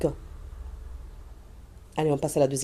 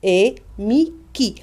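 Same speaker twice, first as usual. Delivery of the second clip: syllable demo; 4 dB louder, much slower than usual. Shown as a demonstration. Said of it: "Deux syllabes".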